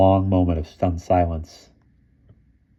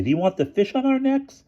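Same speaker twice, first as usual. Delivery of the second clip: angry. A narrator's reading. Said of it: "Bruno gasped angrily".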